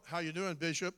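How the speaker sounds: a light smooth DJ greeting to the bishop. Retold or imitated. Pastors greeting the bishop in a lightly smooth DJ voice. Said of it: "they use that D J voice".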